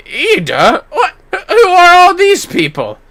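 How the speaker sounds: high, slow, laughing disbelief; startled at the crowd; bewildered by the crowd; laughing surprise. Acted.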